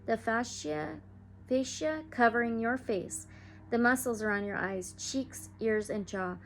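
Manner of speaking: soothing meditation read; guided meditation. Acted. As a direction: lead listeners gently into calm. Leads a guided healing meditation.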